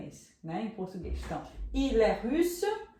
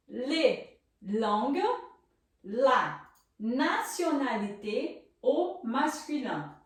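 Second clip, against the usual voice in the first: slow model pronunciation; much slower than usual. Shown as a demonstration. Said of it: "vou repetir pra vocês aprenderem a pronunciar".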